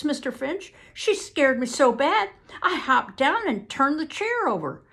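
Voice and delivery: Southern witness building to loud, high alarm, then settling; agitated witness. Acted. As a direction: insist on your account, flustered and emphatic. Witness grows agitated in testimony.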